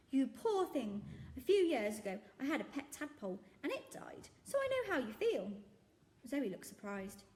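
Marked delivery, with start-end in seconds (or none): 0.1-5.5 high, loud earnest shopkeeper; jolly shopkeeper. Acted. Shopkeeper telling of his tadpole, earnest and loud. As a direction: share the sad tale in earnest. Raj's tale.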